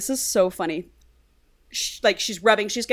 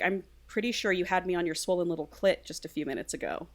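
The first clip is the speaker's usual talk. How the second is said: lowered, softer voice into an ear; retold whisper; 7 dB quieter, faster than usual. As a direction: murmur it softly, half-whispering. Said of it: "he whispers in her ear".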